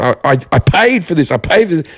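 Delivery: first-class attitude. Retold or imitated. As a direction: replay an indignant passenger insisting. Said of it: "I had this first class attitude".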